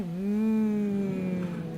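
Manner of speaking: low approving hum; closed-lip hum. Shown as a demonstration. Teacher reviewing the last option, low hum. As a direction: lips together, hum low. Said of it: "put your lips together and go".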